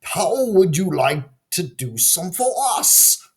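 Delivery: snicker, then ask slyly; mocking laughter. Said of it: "The townspeople laughed to themselves".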